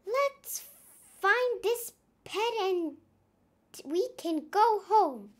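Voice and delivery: high pleading pirate; weary pirate. Acted. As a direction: nag the others to hurry. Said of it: "sighed Pirate Nong".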